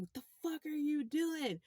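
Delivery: indignant, high-voiced retold scolding; imitated angry cursing. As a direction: imitate an irate officer cursing out a driver. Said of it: "cursing me out".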